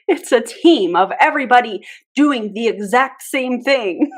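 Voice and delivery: mock the sales pitch back, up high; mocking repeat.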